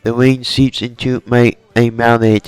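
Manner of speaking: lightly attempted Brooklyn accent, slightly ditzy; a hint of a ditzy Brooklyn accent; Harley Quinn Brooklyn accent. Fan voicing a character's rain monologue, light Brooklyn accent. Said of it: "in a deep Brooklyn ditzy accent".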